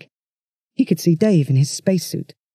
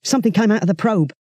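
tense; 4 semitones higher, faster than usual. Acted. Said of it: "Dave's voice was tense".

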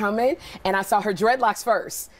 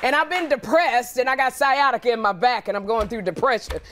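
Rosie impression; 2 semitones higher than usual. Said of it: "what I gotta do about Rosie".

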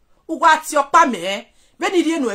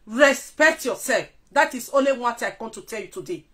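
quiet warning; 5 semitones lower, 7 dB quieter than usual. Real, not acted. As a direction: lower the voice to warn.

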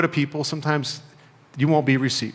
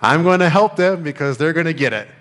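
mocking quote; 2 semitones higher, 3 dB louder than usual. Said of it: "I've seen people think that way".

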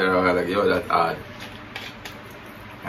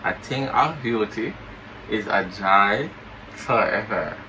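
talking with mouth held open; words through a propped-open mouth; 2 semitones lower, 6 dB quieter than usual. Pretend. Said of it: "you say you're not pronounce good".

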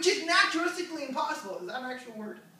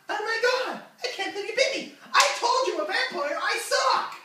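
laughing mock outrage; 9 semitones higher than usual. Woman's reaction, acted with laugh.

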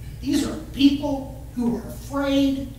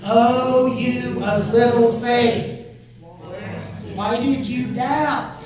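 Jesus's rebuke; 2 semitones higher, 5 dB louder, slower than usual. Acted. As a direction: draw out a gentle reproach to Peter. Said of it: "those magic words".

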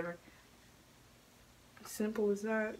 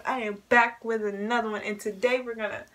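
switching impression voices; 2 semitones higher, 7 dB louder than usual. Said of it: "Here's Perfect Love".

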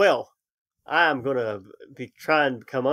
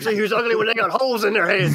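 taunting; 8 semitones higher, 3 dB louder than usual. Acted. Taunting the enemy in character.

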